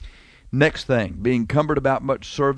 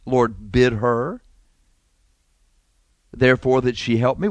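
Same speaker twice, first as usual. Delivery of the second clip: prayer request. Acted. Martha asking the Lord for help, as a prayer request. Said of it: "Was this a prayer request?".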